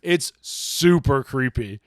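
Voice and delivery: slow, relishing super creepy; drawn-out creepy. Acted. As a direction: savor each word like a spooky tale. Savoring the story's creepiness.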